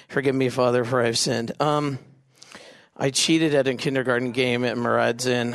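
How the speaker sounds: low, halting confession; mock penitent. Kid confessing a game sin to a priest, low and halting. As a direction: own up sheepishly, low and hesitant. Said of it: "imagine you go to confession".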